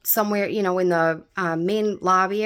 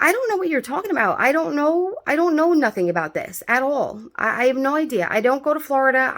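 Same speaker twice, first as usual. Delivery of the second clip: high, fast, frantic protest, retelling her own panic; panicked denial; 5 semitones higher than usual. Retold or imitated. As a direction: insist you know nothing, rushing and climbing. Retold panicked denial to detective.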